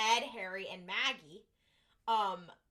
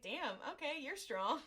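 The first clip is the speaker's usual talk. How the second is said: higher, giggly damn okay; impressed, laughing; 4 semitones higher than usual. Retold or imitated. Crew member impressed by Dean, laughing. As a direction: admire him through a laugh. Impressed reaction to Dean's strength.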